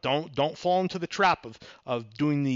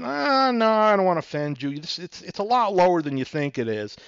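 feigned reluctance; 4 semitones higher, 4 dB louder than usual. Acted. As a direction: play at being loath to offend. Buyer acted, feigning reluctance.

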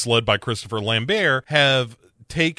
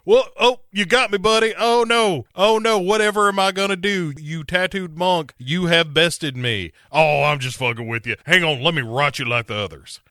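hammy fake panic, then dropping the act; mock villain; 6 semitones higher, faster than usual. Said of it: "Kerrigan is doing that, like".

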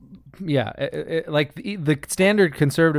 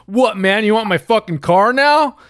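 mock whiny conservative; 9 semitones higher than usual. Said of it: "and be like".

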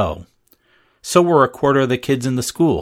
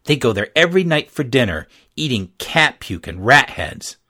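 ordinary delivery

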